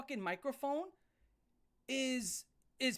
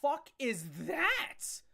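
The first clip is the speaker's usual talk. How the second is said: appalled disbelief; 4 semitones higher, 4 dB louder, slower than usual. Acted. Acted reaction to the screeching.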